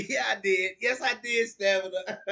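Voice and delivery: high, loud, laughing insistence; laughing protest. Real, not acted. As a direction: insist loudly, breaking into laughter. Laughing protest at chat's teasing.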